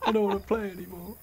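high, shocked laughter; laughing. Real, not acted. Shocked by the witch attack.

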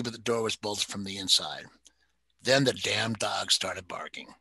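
steady storyteller reading a crime novel; story narration. A narrator's reading. Reader sharing a favorite novel with listeners, narrating. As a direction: read the mystery aloud, even and measured. Reads novel excerpt aloud.

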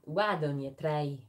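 slow attempt at a Scottish accent; lightly imitated Scottish accent. Shown as a demonstration. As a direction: have a go at Scottish, drawn out. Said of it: "Can you do a Scottish accent?".

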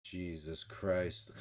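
low, very slow, quiet exasperation; weary groan. Retold or imitated. Weasel after someone says something stupid, low slow groan. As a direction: drag it out low and tired. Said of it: "and he's just like".

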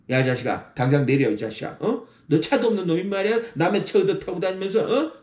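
높은 톤으로 친구에게 버럭; 차 흉본 친구에게 발끈해 쏘아붙여; mock angry friend. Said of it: "그렇게 말하면 친구 사이에 금방 가요". (차를 놀린 친구에게 화내는 말투)

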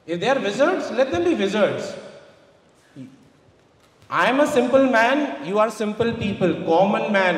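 normal talking voice

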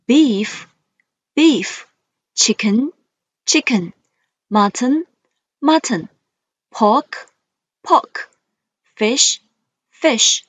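each word twice, rising then falling; list reading tune. Shown as a demonstration. Teacher modelling vocabulary for students, rise then fall. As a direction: model words for the class to repeat. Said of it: "let's read the words".

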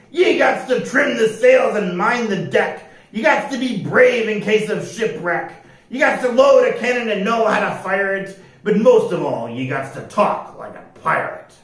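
loud declaration, easing at the end; impatient pirate captain. A narrator's reading. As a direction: declare the rules with a curled lip. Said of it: "curled up his lip".

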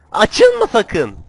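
loud, high, drawn-out command; shouted warning. Real, not acted. Gamer warning against it opening, loud shouted command. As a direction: yell it high and slow.

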